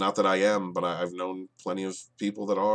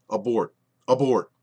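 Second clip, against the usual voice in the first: rising exasperated call; 6 dB louder than usual. Real, not acted. Yelling at the show.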